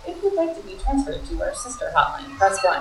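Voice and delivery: lightly imitated little phone-menu voice; little automated voice. Closed hotline's menu offering a transfer, little recorded voice. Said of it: "this little voice comes on".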